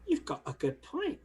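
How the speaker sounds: leprechaun brogue, hesitating over the place; Irish accent. Acted. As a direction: conclude in a put-on Irish accent. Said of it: "making me do the accent".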